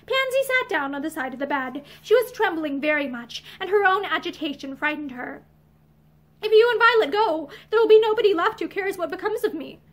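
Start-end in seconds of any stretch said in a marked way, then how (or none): 6.4-9.8 higher, louder desperate outburst; distressed, pitch raised; wild outburst. A narrator's reading. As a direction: break out in distress. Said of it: "she broke out wildly".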